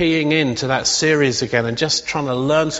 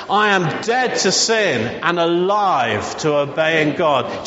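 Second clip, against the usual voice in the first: slow declaration; slower than usual. Shown as a demonstration. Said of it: "Let's just say that".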